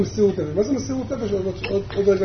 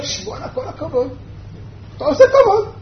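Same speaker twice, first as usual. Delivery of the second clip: acted hushed, impressed "wow"; impressed admiration; 5 semitones higher than usual. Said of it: "מה אתה אומר?".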